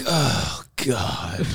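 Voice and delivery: mock despair. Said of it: "He's like".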